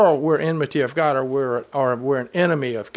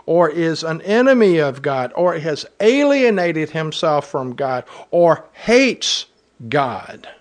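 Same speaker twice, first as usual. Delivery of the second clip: raised, deliberate reading of the verse; scripture reading. Acted. Pastor reading the verse to his congregation, raised and deliberate.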